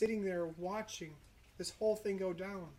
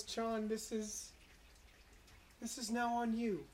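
softer and slow, a dying man's gentle charge; tender farewell; 4 dB quieter than usual. Acted. Jesus on the cross telling John to care for his mother, soft and slow. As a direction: hand over your mother's care gently, slowly.

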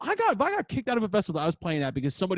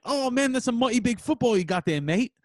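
higher-pitched British imitation; mock British accent; 6 semitones higher than usual. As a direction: put on a teasing British accent. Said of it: "he said something with a British accent".

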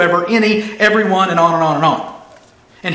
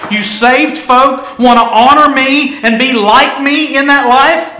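voice of God; 4 semitones higher, 4 dB louder than usual. Acted. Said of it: "God says".

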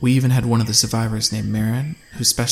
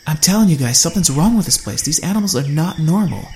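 high, loud, frantic warning; 6 semitones higher, 5 dB louder than usual. A narrator's reading. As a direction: urge them, scared and fast. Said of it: "as she frantically searched the sky".

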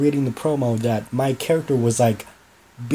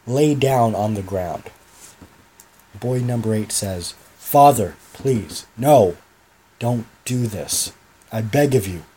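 dramatic promo reading; 3 semitones lower than usual. Acted. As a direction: read it like a menacing wrestling promo. Reads his wrestling promo aloud.

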